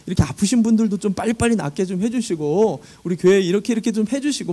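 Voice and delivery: pleading, aggrieved prayer to God; complaining prayer. Retold or imitated. Pastor retelling how he argues with God at dawn, aggrieved plea. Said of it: "하나님께 따질 때가".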